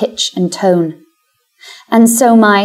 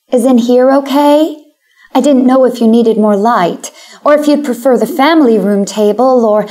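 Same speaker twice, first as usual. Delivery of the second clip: nervous hostess; 4 semitones higher, 3 dB louder than usual. Acted. Nervous hostess voiced in story.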